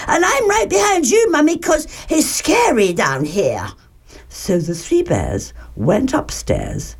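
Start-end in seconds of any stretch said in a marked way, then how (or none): 0.1-3.7 high, hurried little-cub voice; small frightened bear, starting very high; scared Baby Bear. A narrator's reading. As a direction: pipe up anxiously to mummy.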